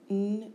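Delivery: N-Y-U-M-E-R-A-T-E as separate phonemes; sound by sound. Shown as a demonstration. Teacher showing phonemes, N-Y-U-M-E-R-A-T-E sound by sound. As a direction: sound out N-Y-U-M-E-R-A-T-E with gaps.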